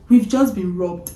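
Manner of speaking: slow, unbothered report of a robbery; mock-calm, as if nothing happened; husband calmly telling the uncle they were robbed; imitating a calm husband. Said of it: "This is the way he said it".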